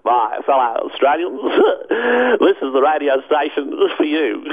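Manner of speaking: lightly voiced prime minister address; a hint of Bob Hawke, laughing; Bob Hawke impression. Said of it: "Bob Hawke".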